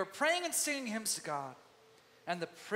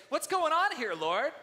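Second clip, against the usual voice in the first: loud, high, pleading demand; exasperated cry to God; 10 semitones higher, 7 dB louder than usual. Retold or imitated. Preacher crying out to God in frustration. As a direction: throw the question up at heaven.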